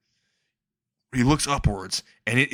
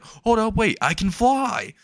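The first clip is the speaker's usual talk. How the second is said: high, excited exclamation, drawn out; hammed-up delight, pitched high; mock excitement; 11 semitones higher than usual. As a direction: act out a sudden thrilled realization. Falling boy believes he flies.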